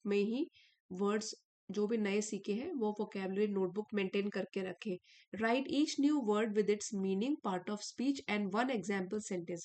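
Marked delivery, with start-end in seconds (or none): 5.4-9.6 every English word read out slowly; slow lesson reading. Acted. Teacher reading the notebook advice to students, slow and clear. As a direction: read it like a dictation for the class.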